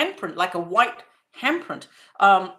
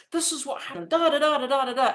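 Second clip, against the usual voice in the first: higher-pitched imitation of an excited child; full of excitement; 5 semitones higher, faster than usual. Child telling mom what happened, excitedly. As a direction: babble it out to mom like a kid. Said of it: "full of excitement".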